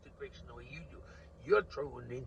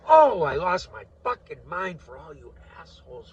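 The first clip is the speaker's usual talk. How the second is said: loud, furious outburst; furious shout; 2 semitones higher, 19 dB louder than usual. Real, not acted. Ranting at his viewers, real furious shout. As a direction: yell it in real exasperation.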